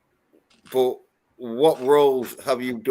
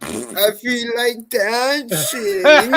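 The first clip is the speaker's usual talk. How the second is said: Woody Harrelson character; 9 semitones higher, much slower than usual. Retold or imitated. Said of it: "the Woody Harrelson character in Anger Management".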